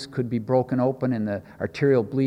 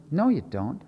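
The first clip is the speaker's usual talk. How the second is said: unruffled, softer reply; calm; 4 dB quieter than usual. Retold or imitated. Jesus answering Pilate square in the eye, calm. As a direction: answer calmly, completely unintimidated. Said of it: "looks him right square in the eyes and says calmly".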